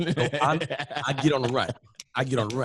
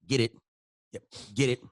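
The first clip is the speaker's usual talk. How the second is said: rising, louder taunt; taunting pull; 5 semitones higher, 4 dB louder than usual. Retold or imitated. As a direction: goad him to keep pulling. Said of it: "This how I say when I pull".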